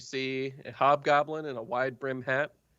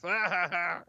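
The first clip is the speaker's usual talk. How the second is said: mock villain laugh; 5 semitones higher, 3 dB quieter than usual. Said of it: "And they all laugh".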